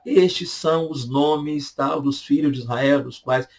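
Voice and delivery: Estes drawn out slowly as a quoted verse; slow scripture quote; slow reading. Shown as a demonstration. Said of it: "olha como é que começa o Êxodo".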